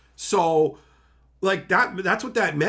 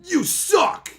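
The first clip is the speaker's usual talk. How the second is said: mock insult; 14 semitones higher, 5 dB louder than usual. Shown as a demonstration. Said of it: "He didn't say it like".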